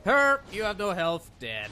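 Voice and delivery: high, loud mock goofy call; hammed-up imitation of a know-it-all teammate; mocking someone else. Player imitates someone warning him about health, mocking loudly. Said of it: "someone's like".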